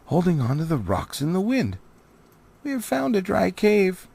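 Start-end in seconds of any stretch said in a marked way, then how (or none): 2.6-4.1 high, louder, excited dwarf voices; eager young dwarves. Acted. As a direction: burst in with good news. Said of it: "they said".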